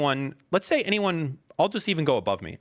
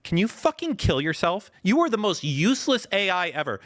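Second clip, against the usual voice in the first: higher-pitched, heated insult; exasperated outburst; 6 semitones higher than usual. Real, not acted. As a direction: lose patience with a useless assistant.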